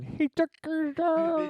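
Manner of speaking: high, slow cartoon hick; South Park redneck. Retelling the wrestling episode, redneck voice. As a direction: squeal it like the redneck. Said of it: "they bring those rednecks back in".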